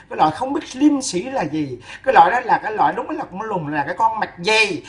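laughing insults. Real, not acted.

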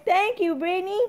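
put-on high, sing-out model for a child to copy; prompting a child. Shown as a demonstration. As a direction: lead a little one through saying thanks. Prompting child to repeat thanks.

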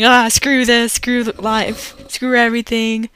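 half-hammed angry outburst, retelling; retold raging. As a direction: vent it all like you're done with life. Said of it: "like, raging".

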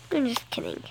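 whispered aside; whispered just kidding. Real, not acted. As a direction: breathe it as a secret. Whispered retraction.

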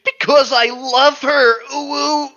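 high, loud, hammed-up wail; shriek. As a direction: shriek it like a lovesick cartoon. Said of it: "Draco shrieked".

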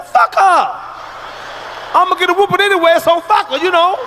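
loud, high, fast defiant outburst; defiant shout. Retold or imitated. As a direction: yell it back like a fed-up kid. Defiant kid quote, shouting.

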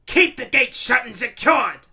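high, loud commander's shout; shouted order. A narrator's reading. Randolph ordering the gate kept shut, shouting. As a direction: order it at full voice. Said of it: "Randolph ordered".

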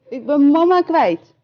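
put-on a lost baby owl squeaking; piping little owl. A narrator's reading. Little owl to squirrel, lost and piping. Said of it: "piept Kleine Uil".

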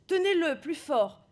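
ordre crié, beaucoup plus aigu et plus fort; voix d'Alkist. Acted. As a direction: hurler aux robots de tenir plus fort. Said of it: "Voix d'Alkist". (Alkist hurle aux robots pendant l'opération)

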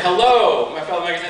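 mild mock yell. Speaker retelling the second call to the crowd, mild mock yell. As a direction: re-enact hailing a big crowd. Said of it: "I did it again".

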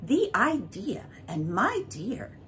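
a hint of posh art lovers, slow; lightly mock the gallery crowd; lightly mimicked gallery visitors. Gallery visitors gushing over pictures, light mimicry. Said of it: "everybody says to everybody else".

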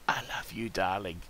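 soft breathy whisper to a darling; playful whisper. Pretend. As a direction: whisper it tenderly into someone's ear. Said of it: "whisper in someone's ear".

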